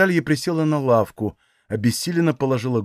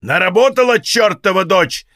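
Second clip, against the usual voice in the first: loud, high furious roar; father screaming at the bleeding daughter-in-law; yelling; 4 semitones higher, 4 dB louder than usual. Acted. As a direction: bellow it from the doorway. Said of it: "заорал он".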